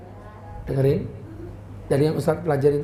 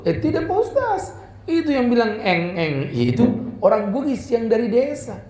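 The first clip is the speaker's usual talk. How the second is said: put-on Bugis accent; 5 semitones higher than usual. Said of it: "supirnya orang Bugis".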